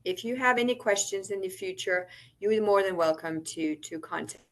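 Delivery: audio cutting out. Real, not acted. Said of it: "Your audio is cutting out just a little bit".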